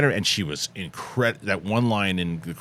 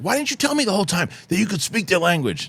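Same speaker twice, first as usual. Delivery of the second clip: quoted character; 9 semitones higher than usual. Retold or imitated. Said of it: "she's like".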